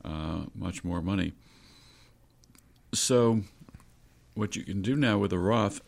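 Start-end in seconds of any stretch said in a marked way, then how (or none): 2.9-5.8 strained, fading voice; talking through a failing voice; voice giving out. Real, not acted. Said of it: "losing my voice here".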